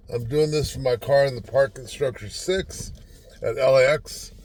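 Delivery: slight lisp on the s sounds; talking with a lisp. Real, not acted. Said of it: "Sounds like I have a lisp".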